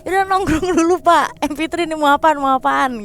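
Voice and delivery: high, loud, laughing banter; teasing laugh. Retold or imitated. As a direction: tease him with a laugh in the voice.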